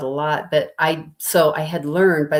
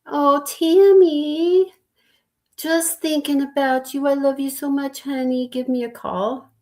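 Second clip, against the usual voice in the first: very high, syrupy, fake-sweet voice; 11 semitones higher than usual. Retelling a mom's answering machine message, in a mock-sugary imitation of her voice. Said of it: "my mom's voice in this sugary".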